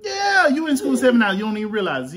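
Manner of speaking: mock outrage.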